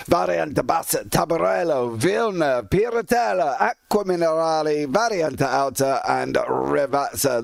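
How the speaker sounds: light hammed-up Italian accent on the corner names; mock Italian accent. Shown as a demonstration. Commentator lightly hamming Italian accent on Imola corner names. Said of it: "That is my best Italian accent".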